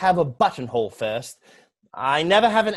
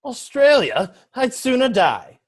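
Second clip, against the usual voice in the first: aghast; 7 semitones higher, 5 dB louder than usual. Acted. Horrified at being sent away.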